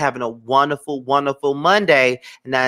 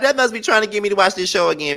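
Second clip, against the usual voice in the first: laughing retelling; 5 semitones higher, faster than usual. Retold or imitated. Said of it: "I was like".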